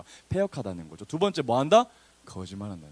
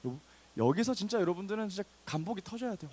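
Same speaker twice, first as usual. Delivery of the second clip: ordinary talk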